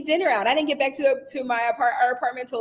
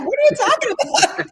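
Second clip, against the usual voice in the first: imitating husband; 4 dB louder than usual. Husband voiced in story.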